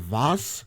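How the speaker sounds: "vase" said the British way, rhyming with cars. Shown as a demonstration. Host shows how they say it in Britain, British "vase". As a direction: say "vase" as vahz, British style. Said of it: "That's how they say vase in, in Britain".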